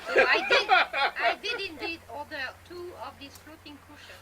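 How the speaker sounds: slow, laughing start of the story. Real, not acted. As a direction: bubble with laughter as you begin. Stepmother laughing telling story.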